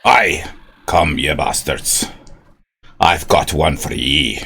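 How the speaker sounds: slow, growled mock Scottish brogue; a stab at a slow Scottish brogue; Sean Connery-ish Scottish. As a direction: channel a Connery Scotsman. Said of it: "I've just got to think of Sean Connery".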